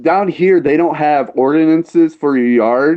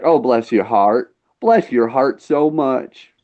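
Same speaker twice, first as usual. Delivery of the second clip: slow, sugary fake politeness; mock Southern sweetness; 3 semitones lower, slower than usual. Mocking Southern locals with a slow sugary blessing. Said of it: "they'll be like".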